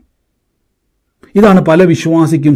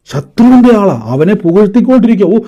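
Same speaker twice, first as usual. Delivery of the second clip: mocking; 6 semitones higher than usual. Real, not acted. Mocking the doubter.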